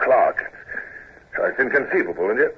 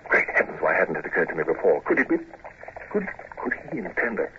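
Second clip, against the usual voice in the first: dawning dread; 4 semitones lower, 3 dB quieter than usual. Acted. Sudden dread of assassination plot.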